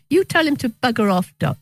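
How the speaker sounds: retold Cockney order to the doctor; Cockney accent. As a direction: put on a mild Cockney for the punchline. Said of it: "she said that in a Cockney".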